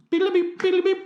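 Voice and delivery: high sing-song phone ringing noise; phone ring imitation. Imitating the phone ringing while calling Neil Armstrong, high sing-song.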